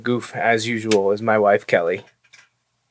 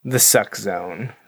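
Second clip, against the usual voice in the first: slow, drawn-out movie quote; quoting the movie line; 2 semitones lower, slower than usual. Retold or imitated. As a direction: slowly savour the famous line. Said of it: "one of the quotes that everyone talks about".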